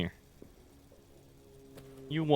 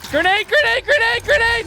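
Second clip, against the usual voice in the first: high shrieking grenade warning; grenade warning yell; 10 dB louder than usual. Real, not acted. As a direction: scream the warning, much higher and louder. Throwing grenade, shouting warning.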